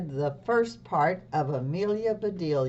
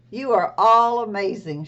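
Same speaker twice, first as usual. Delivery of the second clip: delighted librarian; 4 semitones higher, 9 dB louder than usual. Acted.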